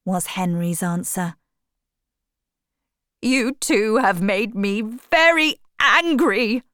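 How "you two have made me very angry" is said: higher, louder angry outburst; angry shout. A narrator's reading. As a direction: let the anger burst out at both friends. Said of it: "shouted Basil".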